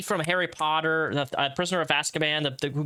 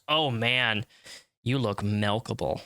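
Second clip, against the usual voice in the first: creepy stranger; 6 semitones lower, slower than usual. Acted. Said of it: "and a stranger says".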